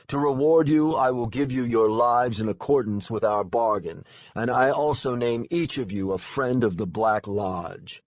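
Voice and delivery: booming, lordly proclamation; grand fae lord. Acted. Lord Aran rewards the heroes, grandly booming.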